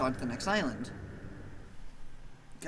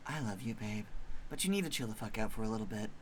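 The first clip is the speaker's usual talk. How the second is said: lower, soft easygoing monster; mellow monster; 6 semitones lower, 8 dB quieter than usual. Acted. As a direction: shrug it off lazily.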